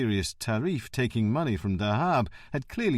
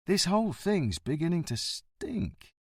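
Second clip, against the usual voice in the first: pensive; 8 semitones higher than usual. Acted. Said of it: "Valente said pensively".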